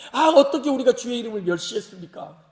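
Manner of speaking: loud acted objection; protesting. Priests answering the Father's rebuke, protesting. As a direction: deny it with mock indignation. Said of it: "이렇게 항변하죠".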